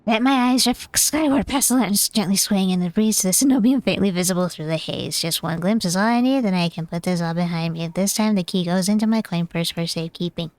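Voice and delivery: measured, even read-aloud narrator; story narration. A narrator's reading. First-person narrator recounting a missing key, story narration.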